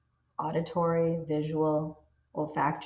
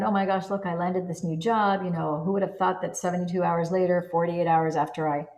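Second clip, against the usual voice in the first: excited news; 4 dB louder than usual. Pretend. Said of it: "telling your best friend".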